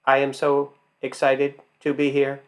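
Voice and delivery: robotic flat read with no inflection; flat monotone. Shown as a demonstration. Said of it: "You don't talk like that".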